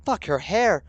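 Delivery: high, loud shocked yelp; excited outburst. Real, not acted. Streamer yelping at the screen, loud and excited. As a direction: burst out at the sudden change.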